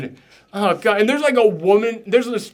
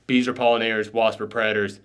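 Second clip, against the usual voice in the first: lightly voiced kid reciting, lower; a hint of a dutiful student; student answer; 8 semitones lower, 4 dB quieter than usual. Boy answering the teacher, a hint of a dutiful student.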